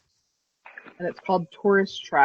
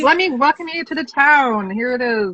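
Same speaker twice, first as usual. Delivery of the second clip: mock local welcome; 6 semitones higher, 4 dB louder than usual. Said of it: "They're like".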